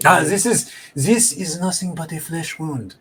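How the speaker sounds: lightly voiced smug explorer with a scoff; sanctimonious greeting, daring them on; mustached explorer Pierre. Game master voices the wounded explorer, sanctimonious and scoffing.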